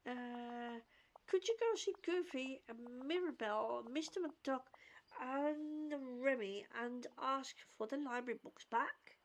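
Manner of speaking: measured read-aloud of a character's lines; lightly performed storybook-style read; reading dialogue aloud. Acted. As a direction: read it out with careful, lightly acted phrasing. Reads game character's dialogue aloud.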